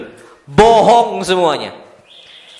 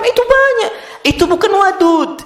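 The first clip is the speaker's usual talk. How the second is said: emphatic; 10 semitones higher than usual. Real, not acted. Preacher stressing point to women.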